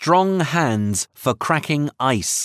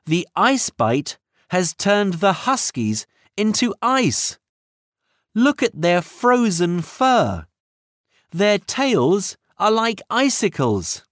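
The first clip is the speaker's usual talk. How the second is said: alarmed; 6 semitones higher than usual. A narrator's reading. Minnie alarmed at frozen huskies.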